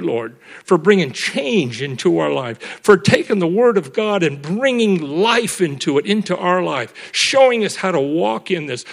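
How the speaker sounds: rolling, emphatic praise to God; closing prayer. Real, not acted. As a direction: lead a congregation in earnest thanks.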